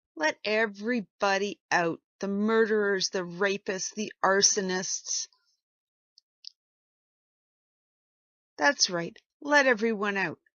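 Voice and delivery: mocking, heavy, dripping sarcasm. Mocking the call to move on and let everyone out: sarcastic tone. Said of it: "You better detect the sarcasm in my voice".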